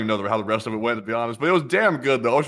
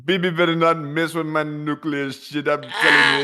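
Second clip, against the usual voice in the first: mock tough leader boasting; half-hearted prime minister impression; Bibi voice; 3 semitones higher than usual. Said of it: "go through the script with the whole Bibby thing".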